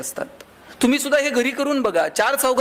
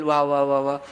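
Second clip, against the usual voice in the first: lower-pitched, mock-affectionate wife greeting; low, ironic welcome home; mock loving welcome; 8 semitones lower than usual. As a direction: play a fondly welcoming wife, tongue in cheek. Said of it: "बायको प्रेमानं दार उघडेल".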